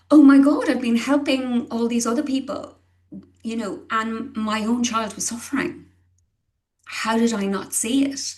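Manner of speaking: reliving the horror of missing it; panicked realization. Retold or imitated. Retelling her own panicked inner voice.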